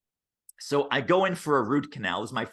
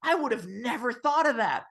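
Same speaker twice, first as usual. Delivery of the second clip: high, gushing amazement; very high mock gushing; amazed client; 13 semitones higher than usual. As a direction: gush like a wowed client. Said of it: "and they're like".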